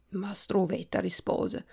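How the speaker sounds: usual speaking voice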